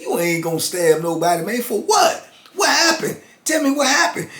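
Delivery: high, urgent questions pressing for the story; retold startled questioning; alarmed disbelief. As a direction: demand to know what happened, voice jumping up. Calming him, pitch jumps high.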